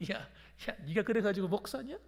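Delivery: lightly acted taunting questions; mildly jeering devil's taunt; mocking Satan. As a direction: sneer at the believer as Satan would, without shouting. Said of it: "사탄이 비웃는 거예요".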